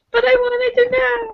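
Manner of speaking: high, drawn-out mock whine; playful whine. Frustrated reader protests the untold secret, in a playful whine. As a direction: stretch it into a high childish complaint.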